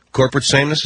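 corporate sameness? with a rising, doubting tune; mocking disbelief at the mayor's phrase; incredulous echo. Shown as a demonstration. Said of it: "Is that what you guys call it".

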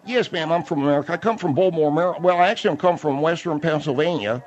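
put-on high-pitched, muddled American accent; hard-to-follow accent. Auxiliary policeman telling a caller where he's from, thick odd accent. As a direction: explain your origins in a high, garbled regional accent. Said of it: "that whole accent, I didn't understand".

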